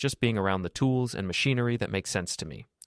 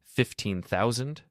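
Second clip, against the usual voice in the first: slow, rising stunned echo; jaw-dropped disbelief; 3 semitones higher, slower than usual. Acted. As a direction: repeat the sum as if it can't be true. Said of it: "Jessica's jaw drops".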